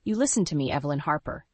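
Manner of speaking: firm, no-argument mother; stern. Acted. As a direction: lay down the law gently. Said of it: "her tone brooking no argument".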